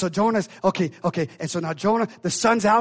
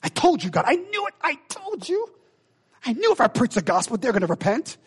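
mad told-you-so; 4 semitones higher than usual. Acted. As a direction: pitch jumping high on I knew it, bitter. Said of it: "Jonah was mad".

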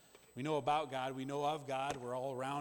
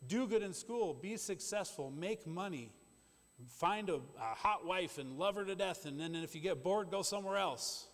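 voicing the world; 4 semitones higher than usual. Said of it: "the world says".

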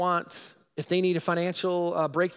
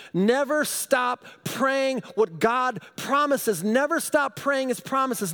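higher, slow, emphatic preaching; preaching exhortation; 7 semitones higher, 3 dB louder, slower than usual. Acted. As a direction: urge them never to quit.

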